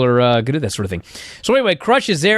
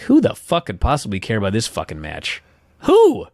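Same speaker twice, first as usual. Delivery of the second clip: disbelief building to a squeak; incredulous rant; 6 semitones lower than usual. Retold or imitated. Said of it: "and I'm like".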